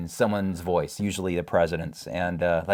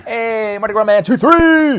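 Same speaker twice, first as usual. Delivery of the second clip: high, loud cheerful greeting; excited shout-out; 12 semitones higher, 10 dB louder, slower than usual. Real, not acted. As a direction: call out the name like a hype host. Greeting a familiar commenter.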